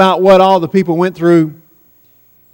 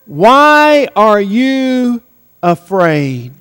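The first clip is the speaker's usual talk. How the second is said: Jesus questioning; much slower than usual. Retold or imitated. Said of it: "hear what Jesus says".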